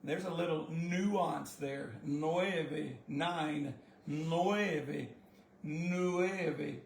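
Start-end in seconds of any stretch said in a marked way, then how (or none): 2.0-6.8 "nueve" with short clipped vowels. Shown as a demonstration. Teacher drilling short vowels in "nueve". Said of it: "still very short vowels".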